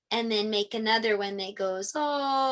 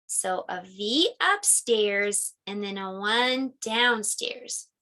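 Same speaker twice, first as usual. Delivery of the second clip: slow demo; 3 semitones lower, slower than usual. Shown as a demonstration. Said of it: "teacher slow demo".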